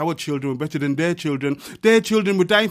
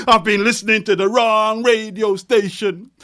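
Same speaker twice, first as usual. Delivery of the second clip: louder and higher, rising at the end; ringing refrain; 5 semitones higher, 4 dB louder than usual. Acted. Poet hurling the refrain at the crowd, loud. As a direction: throw the refrain out to the room.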